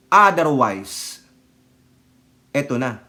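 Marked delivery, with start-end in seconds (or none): none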